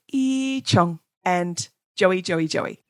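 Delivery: slow whistled imitation of a birdcall; imitating bird call. Shown as a demonstration. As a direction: sound out the whistler's call, slowly. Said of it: "Listen out for their".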